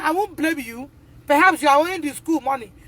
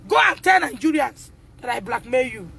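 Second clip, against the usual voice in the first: angry shout; 2 semitones lower than usual. Real, not acted. Mother shouting at the school.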